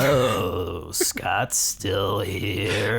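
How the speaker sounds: slow, mechanical robot voice; flat, slow robot reading. Shown as a demonstration. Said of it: "What about in the robot voice?".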